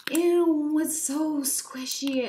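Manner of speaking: high, loud gushing squeals; too excited. Real, not acted. Squishing her new unicorn toy for viewers, overexcited gushing. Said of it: "I just got way too excited".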